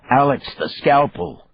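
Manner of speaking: loud, high shout of alarm; yelled warning. A narrator's reading. Partner yelling a warning about the scalpel, loud alarm. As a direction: bark the danger at him. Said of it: "he yelled".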